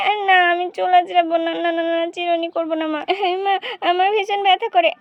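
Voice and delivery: put-on quick no-no-no child; little girl refusing her mother; protesting little girl. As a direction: refuse the comb like a fussy child. Child refuses hair combing.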